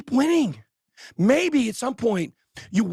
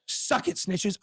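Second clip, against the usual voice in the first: breathy whispered jab; whispered taunt to the haters; 2 semitones lower, 6 dB quieter, much slower than usual. Real, not acted. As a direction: hiss it at the haters. Taunting haters after rant.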